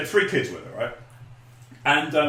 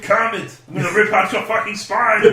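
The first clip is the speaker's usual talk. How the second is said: raised-pitch mock action-hero threat; Swedish Chef as Arnie; 6 semitones higher than usual. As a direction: threaten in a hammed-up Austrian accent. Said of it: "Swedish Chef as Arnie".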